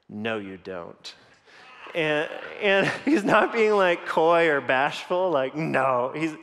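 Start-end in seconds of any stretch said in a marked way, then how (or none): 0.1-1.1 put-on a lower, slower sly child's voice; low mischievous kid. Son teasing his dad, low and sly. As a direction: drag it out like a teasing boy.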